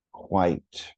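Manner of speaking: "quite" said as one clean syllable, falling. Shown as a demonstration. Teacher models the tested word for teachers, one-syllable "quite". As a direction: say "quite" in a single beat, no break before the t. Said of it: "One syllable".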